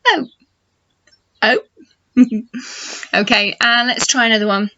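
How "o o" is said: O with a round open mouth; teacher modelling the O sound. Shown as a demonstration. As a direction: shape the O round. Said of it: "make that round shape".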